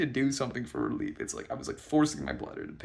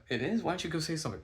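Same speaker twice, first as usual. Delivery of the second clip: slightly higher-pitched imitation of a friend; lightly voiced friend; 6 semitones higher, faster than usual. Friend nudging him to go say something, lightly imitated.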